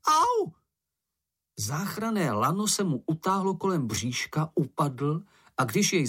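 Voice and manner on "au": high squeaky critter voice, a yelp of pain; a tiny creature yanked along, whining and yelping; little creature's cry. A narrator's reading. Little creature dragged on a rope, squeaky yelp.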